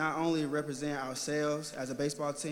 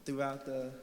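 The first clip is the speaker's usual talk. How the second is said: stage fright. Real, not acted. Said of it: "I'm a little nervous".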